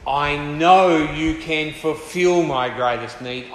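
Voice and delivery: slow, emphatic affirmation of trust; earnest declaration. Acted. Preacher voicing a believer's trust in God, earnest declaration. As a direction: declare it slowly with conviction. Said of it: "along with that cry is".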